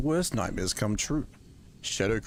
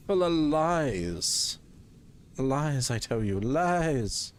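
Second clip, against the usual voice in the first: mock dramatic accusation; 5 semitones higher, much slower than usual.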